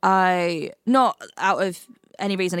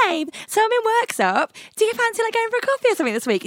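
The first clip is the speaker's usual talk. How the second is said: quoting own text; faster than usual. Retold or imitated. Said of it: "I literally messaged you being like".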